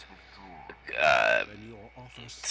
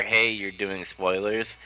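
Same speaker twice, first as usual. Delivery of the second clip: scolding objection; 2 semitones higher, slower than usual. Retold or imitated. Streamer guessing Denny's chat tone, scolding objection. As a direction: object to spoilers, drawn out.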